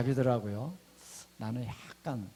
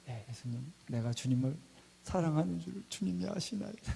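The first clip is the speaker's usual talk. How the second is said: timid small voice; 4 semitones higher, 5 dB quieter than usual. Retold or imitated. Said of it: "근데 작은 목소리로".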